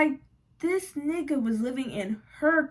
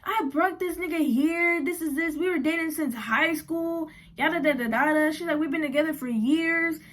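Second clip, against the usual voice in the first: mimicking crying girlfriend; 5 semitones higher than usual. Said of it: "she started crying".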